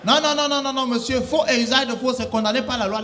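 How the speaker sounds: mock stern operator; loud scolding. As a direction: lay down the law loudly. Operator scolding thief caller.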